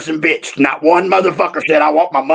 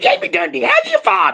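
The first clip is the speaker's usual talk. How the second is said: tiny, high, little squeaky voice; 8 semitones higher than usual. Retelling what Peter said on meeting, imitating Peter's little squeaky voice. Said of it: "the little squeaky voice comes out".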